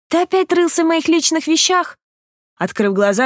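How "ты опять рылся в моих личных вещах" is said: higher, outraged accusation; furious indignation. A narrator's reading. Sick girl accuses him of snooping, furious. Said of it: "яростно возмутилась она".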